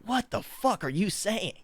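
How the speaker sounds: high, slow, incredulous question; stunned disbelief. Retold or imitated. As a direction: let the shock stretch every word out. Stunned at drunk friend's confession.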